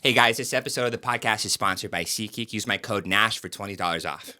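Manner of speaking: ad-read impression of the host. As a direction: read the sponsor line as the host. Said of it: "do the impression of me".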